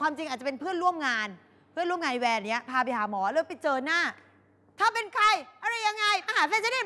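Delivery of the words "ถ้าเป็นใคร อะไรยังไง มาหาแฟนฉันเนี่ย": higher, slow menacing challenge; jealous girlfriend confronting a coworker, hostile; aggressive confrontation. Retold or imitated.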